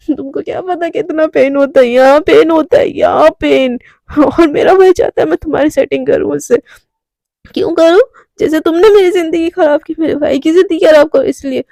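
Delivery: put-on drunken angry rant. Drunk Radhika yelling her pain at Devika. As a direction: throw the blame at her, loud.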